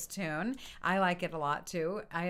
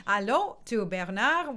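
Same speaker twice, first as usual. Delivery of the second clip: slow, light French-accented greeting; French-flavored hello, drawn out slowly; 4 dB louder than usual. Real, not acted. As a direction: greet him with a French pronunciation. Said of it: "with kind of a French accent".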